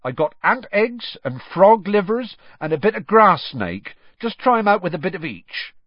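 gruffly getting on with the lesson; rough. A narrator's reading. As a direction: tell them roughly, brushing the question off. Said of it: "Then he said roughly".

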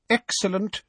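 pitched well up in delight; delighted character voice, high; pleased. A narrator's reading. Fudge praising Dolores for the evidence, pleased and high. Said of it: "a smile spreading across his face".

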